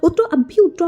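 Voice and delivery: high, loud order to get out; yelling get out. A narrator's reading. Driver orders the stranger out of his taxi, high loud yell. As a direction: bark it at the intruder. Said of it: "चिल्ला के बोला".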